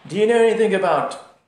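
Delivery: loud, high-pitched quizzing; hammed-up academic testing the boatman; British academic. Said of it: "the British academic says".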